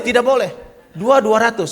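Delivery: won't budge an inch; firm refusal. Retold or imitated. Woman insists on husband's price. (menolak dengan tegas dan keras)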